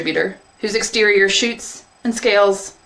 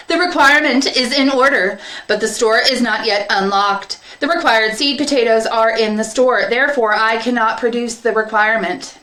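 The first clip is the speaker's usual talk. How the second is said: higher, louder mechanical voice, dry logic; seed distributor robot; 5 semitones higher, 4 dB louder than usual. Acted. Distributor refusing the field minder, flatly logical. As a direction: state it like a rule-bound machine.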